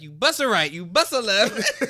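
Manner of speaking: loud mock Jamaican accent, laughing. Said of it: "He was doing Jamaican accent".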